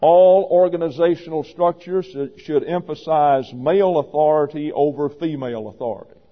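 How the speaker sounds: loud, emphatic proclamation; loud pulpit pronouncement, stress on male; proclaimed. Shown as a demonstration. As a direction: declare it as firm truth.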